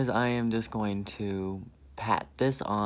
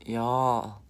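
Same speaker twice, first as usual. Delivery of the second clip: slipping into a Southern "Y'all"; southern accent; 4 dB louder than usual. Real, not acted. Excited over the palette, "Y'all" in a Southern accent. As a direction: let a Southern drawl out on "Y'all". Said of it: "My, my southern accent came out right there".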